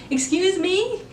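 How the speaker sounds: high, shocked "Excuse me?"; can't believe what she just said; offended disbelief. Retold or imitated. Mom says cancel the visit.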